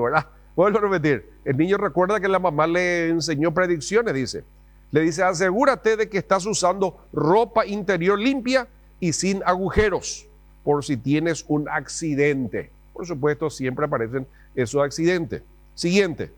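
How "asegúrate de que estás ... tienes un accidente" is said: higher, slow mock-mother warning; lightly voiced anxious mom; fussy mom. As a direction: nag like a worried mother. Mom's advice repeated.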